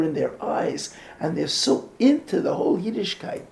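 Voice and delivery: a hint of the weeping rebbe; retold tearful rebbe. Rebbe telling speaker of his boys, lightly tearful. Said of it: "he starts to cry".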